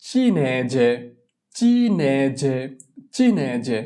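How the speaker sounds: teacher models চিনে যে slowly, ch sound for চি; Italian word pronounced. Shown as a demonstration. Teacher drilling students on an Italian word, pronouncing it carefully. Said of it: "চি ই চি".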